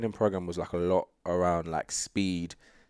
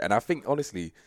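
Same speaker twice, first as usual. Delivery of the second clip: usual speaking voice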